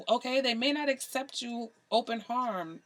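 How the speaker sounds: slipping into a light Jamaican accent; a hint of Jamaican accent on "open harm". Real, not acted. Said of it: "my pseudo Jamaican accent coming out".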